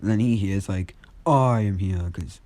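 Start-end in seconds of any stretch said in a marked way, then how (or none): 1.2-2.1 a hint of a hero's big entrance call; booming hero call. Izuku retells All Might's arrival, lightly booming call. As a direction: announce yourself like a rescuing hero, mock-booming. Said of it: "All Might has a loud voice".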